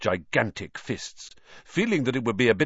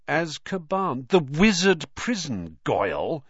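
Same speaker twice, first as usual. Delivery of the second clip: disbelieving; 5 semitones higher than usual. A narrator's reading. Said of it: "looking at him in disbelief".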